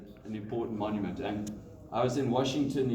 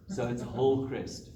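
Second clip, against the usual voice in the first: KZN accent. Shown as a demonstration. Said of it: "get the accent right".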